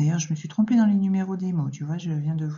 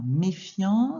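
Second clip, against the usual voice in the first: slow spelling voice. Shown as a demonstration. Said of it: "une lettre muette à la fin de méfiant".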